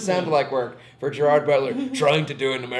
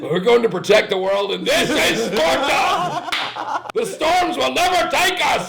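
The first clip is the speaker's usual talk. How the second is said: put-on forced American accent slipping back to Scottish, much higher and louder; hammy action-hero American accent that keeps slipping; Gerard Butler's bad American accent; 11 semitones higher, 7 dB louder, slower than usual. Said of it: "Keeps steadily slipping into his natural accent".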